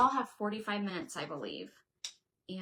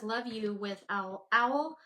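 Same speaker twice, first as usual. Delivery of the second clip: owl hoot voice; 5 dB louder, slower than usual. Pretend. Reading the owl stencil to viewers, hooting like an owl. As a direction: stretch "owl" into a hooting owl call. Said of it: "It's hard to talk like that".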